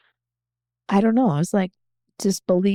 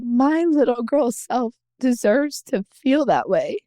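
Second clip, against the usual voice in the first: higher voice, choking up a little; close to tears; 5 semitones higher than usual. Real, not acted. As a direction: push on through welling tears. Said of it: "It's probably gonna make me cry again".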